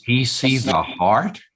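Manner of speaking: "see" lifted as a question; asking whether he really sees; stress on see. Shown as a demonstration. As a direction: lean on "see" with a rising question. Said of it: "upon which word you place the emphasis".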